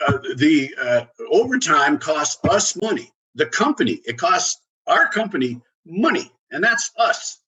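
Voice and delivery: imitating a blunt worker scolding an executive, high and sassy; exasperated retort. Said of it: "she says".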